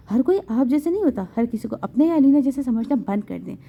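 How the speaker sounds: a touch of clenched anger, word by word; understated through-the-teeth scolding of her husband; biting each word. Acted. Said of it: "ایک ایک لفظ چبا کر بولی".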